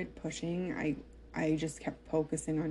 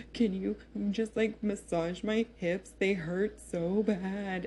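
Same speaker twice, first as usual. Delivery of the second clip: mock-crying, pleading for help through pain; retold crying plea; 3 semitones higher than usual. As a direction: imitate a tearful plea, higher pitched. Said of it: "crying, and I'm like".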